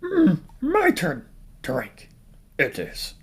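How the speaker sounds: high, slow put-on voice; jokey put-on voice. Ranker announcing it's their turn, jokey put-on voice. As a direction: draw it out high and silly.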